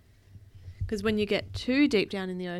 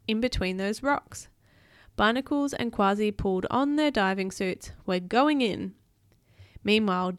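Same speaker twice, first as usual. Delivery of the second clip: put-on animated read-aloud for a child; storybook narration; story narration; 6 dB louder than usual. A narrator's reading.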